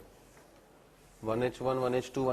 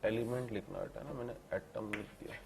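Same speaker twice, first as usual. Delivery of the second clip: slow dictation; 9 dB quieter than usual. Shown as a demonstration. Teacher dictating notes.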